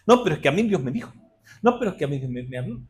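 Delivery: a hint of a whiny, insistent objector repeating "No, pero es que a mí Dios me dijo"; lightly mock the stubborn church member; mock stubborn believer. Preacher mimicking believers who cling to old words, lightly mocking insistence. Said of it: "nos confiamos mucho en lo que Dios nos dijo".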